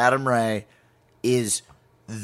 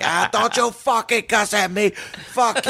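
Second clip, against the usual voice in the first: higher, indignant Boston retort; Boston accent; 6 semitones higher than usual. Retold or imitated. Toll guy objects to being cussed at, higher Boston accent. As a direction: imitate an offended Boston local. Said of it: "speaking in my best Boston accent".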